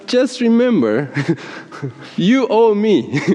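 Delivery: mock reminder with laughter breaking in; gentle but forceful reminder. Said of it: "this gentle but forceful reminder".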